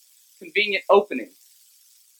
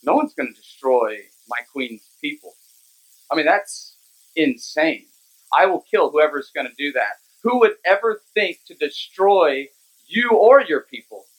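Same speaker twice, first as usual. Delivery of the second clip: a lightly voiced king, lower and indignant; outraged king; 4 semitones lower than usual. King answers his queen's plea, low mock outrage.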